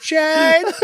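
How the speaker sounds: high calling mom voice; mom yelling. Retold or imitated. Mom calling her son through the door. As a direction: call the name up high like a nagging mom. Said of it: "my mom's yelling".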